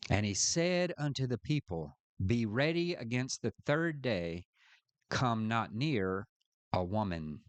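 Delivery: formal reading from the Bible; scripture reading. Real, not acted. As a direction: read it out phrase by phrase, settling at the close. Reads scripture aloud.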